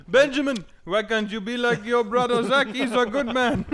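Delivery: put-on high, loud old Jewish man. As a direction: play a fussy old Jewish grandfather. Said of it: "this Jewish, old man Jewish voice".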